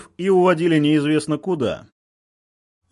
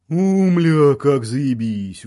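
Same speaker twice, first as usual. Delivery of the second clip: grumbling with a mouthful; mouth full; 2 semitones lower, much slower than usual. A narrator's reading. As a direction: talk round a mouthful of food, slow. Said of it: "ворчал он с набитым ртом". (с набитым ртом)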